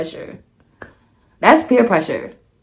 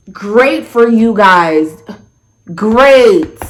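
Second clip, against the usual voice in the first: slow, stretched-out congratulation; feigned non-judgment; much slower than usual. Retold or imitated. Storyteller answering the hookup news, slowly feigning approval. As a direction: draw out each "great" as if approving. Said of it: "non-judgmental ass".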